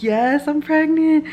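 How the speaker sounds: high, loud, drawn-out joyful cry; excited mock squeal, stretched out; retold excitement. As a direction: re-enact breaking happy news, pitched right up. Retells breaking the news.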